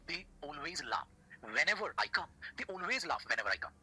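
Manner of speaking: drawn-out words, carefully spaced; slow model sentence. Shown as a demonstration. Teacher translating the Hindi for students, slow and measured. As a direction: model it slowly for beginners.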